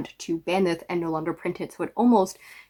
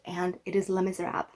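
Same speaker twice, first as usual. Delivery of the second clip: bad French accent; 7 dB quieter than usual. Shown as a demonstration. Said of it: "That is a terrible French accent".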